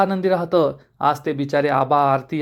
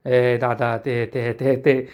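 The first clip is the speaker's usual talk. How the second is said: scared stammer; 4 semitones lower, much slower than usual. Acted. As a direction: trip over the words, caught lying. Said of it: "तो खूप घाबरतो आणि म्हणतो". (घाबरून, हळू आवाजात अडखळत बोलणे)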